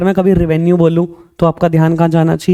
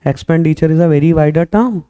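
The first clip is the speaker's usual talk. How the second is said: slow dictation; much slower than usual. Shown as a demonstration. Teacher dictating definition slowly.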